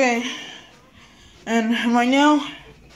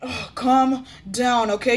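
calming. Pretend. Teacher calms an over-excited pupil.

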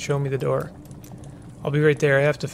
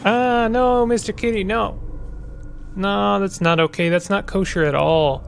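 high, panicked cries of no; panicked pleading; 4 semitones higher than usual. Acted. Fran begging as her cat is hurt, panicked high. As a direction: plead in horror, pitched up.

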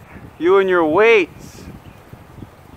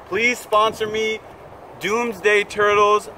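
higher, slow begging plea; pleading; 5 semitones higher, 3 dB quieter, slower than usual. Acted. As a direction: beg the brand sweetly. Begging brand for sponsorship.

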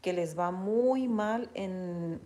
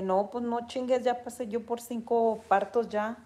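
bossy retort; 3 semitones higher, 5 dB louder than usual. Pretend.

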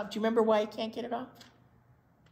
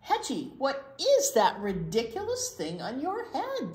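snorted; 5 semitones higher, 4 dB louder than usual. A narrator's reading. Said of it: "the pony snorted at Hedgie".

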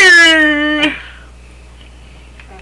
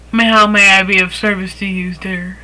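upselling cashier; 5 semitones lower than usual. Shown as a demonstration. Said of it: "Repeat after me".

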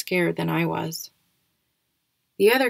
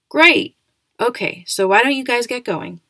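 excited; 5 semitones higher, 8 dB louder than usual. A narrator's reading. Cheerful principal ending the intro.

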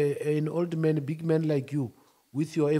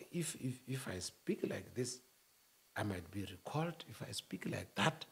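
much softer and lower, timid; scared, careful; 9 semitones lower, 13 dB quieter than usual. Shown as a demonstration. Showing how the scared talk, timid and soft. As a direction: speak as if afraid. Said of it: "you can't speak like this when you are scared".

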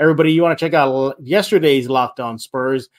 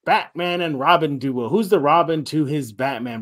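mock pundit voice; 3 semitones higher than usual. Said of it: "everybody's saying".

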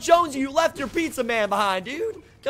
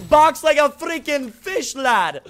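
louder, slower, stretching each word; emphatic slow yell; 6 semitones higher, 8 dB louder, slower than usual. Real, not acted. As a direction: drag out the line with a big yell. Repeats own line, louder second time.

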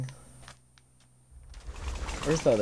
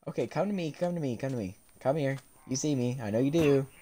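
coaxing softly; 6 dB quieter, faster than usual. Real, not acted. Luring a mob closer.

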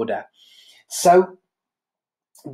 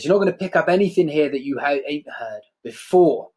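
angrily; 3 semitones higher than usual. Acted. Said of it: "Stanley replies quite angrily".

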